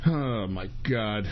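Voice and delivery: low, soft and slow; drained groan. Real, not acted. Broadcaster exhausted by his troubles, low drained murmur. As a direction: sigh the words out, worn down. Spent after the rant.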